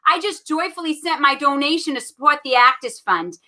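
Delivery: put-on lightly Boston-accented reading. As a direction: read it with a hint of Boston. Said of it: "I'm gonna read this with a Boston accent".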